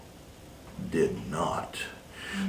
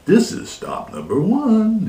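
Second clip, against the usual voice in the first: hissed; 9 semitones higher than usual. Acted. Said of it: "the old Grinchy Claus hissed".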